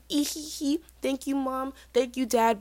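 put-on high little giggly girl voice; goody-goody daughter. Freshman thanking her parents at drop-off, high innocent voice. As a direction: act the sweet, innocent daughter. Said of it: "And she was like".

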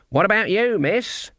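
put-on high questioning old witch; kindly old crone asking. Granny asks Ella.

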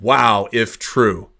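slow, drawn-out mock wow; mocking a smug tweet; mock Hannity quote. Mocking the host's tweet, slow and smug. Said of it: "he said".

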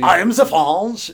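put-on silly French accent, drawn out; mock French accent. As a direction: play at being a cartoon Frenchman with a bad accent. Joins in mock French chef impression.

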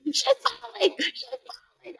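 mild mock scream of panic; retold scream. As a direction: call out in alarm, pitched high. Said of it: "I'm screaming".

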